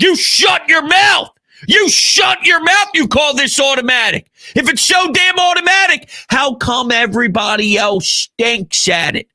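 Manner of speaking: high-pitched, indignant outburst at the doubters; mock-angry telling-off. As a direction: shut down imaginary critics, pitch jumping up. Scolds imagined critics of the play.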